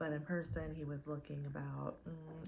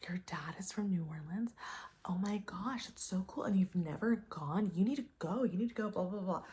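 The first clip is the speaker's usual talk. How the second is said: mock-excited gush, rising louder; amazed; 2 semitones higher, 4 dB louder than usual. Date gushing over her dad being from New Orleans, mock excited. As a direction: gush like he's starstruck. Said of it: "he was, like, amazed".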